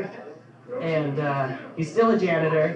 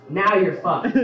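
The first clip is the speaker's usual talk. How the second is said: laughing punchline; 2 semitones higher, 5 dB louder, slower than usual. Retold or imitated. Punchline delivered while laughing.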